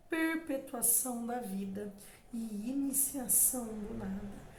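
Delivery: measured, expressive sonnet reading; poem recitation. Acted. Teacher reading a Bilac sonnet to students, recited. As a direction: let each verse breathe as you recite.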